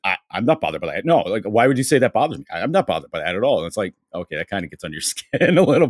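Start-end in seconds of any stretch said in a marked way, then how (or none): 0.0-3.6 fast, hurried protest, lightly mocked; mock defensive. Mocking Rob insisting he's not bothered, fast and defensive. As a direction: protest too much, rushing the words. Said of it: "where you're just like".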